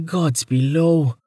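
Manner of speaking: disgusted exclamation; revulsion. A narrator's reading. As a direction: spit it out in disgust. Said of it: "Amelia said with revulsion".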